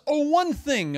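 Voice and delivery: Gehazi's high eager afterthought; wheedling servant. Retold or imitated. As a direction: slip in the request sweetly. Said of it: "He goes".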